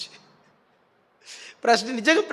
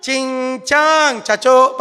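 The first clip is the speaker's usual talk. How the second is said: mock Chinese; slower than usual. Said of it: "ఇది China భాష".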